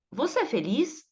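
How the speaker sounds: "Você é feliz" with a marked swing of pitch on FELIZ; intonation demo. Shown as a demonstration. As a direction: show the tune on "feliz". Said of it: "a gente percebe pela entonação". (demonstração de entonação em "feliz")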